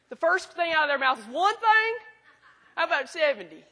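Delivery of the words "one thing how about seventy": mock-incredulous student, pitch shooting up on the question; hammed-up teenage disbelief, then a laughing retort; put-on voice of a scandalized student; exaggerated student impression. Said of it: "They don't talk like that".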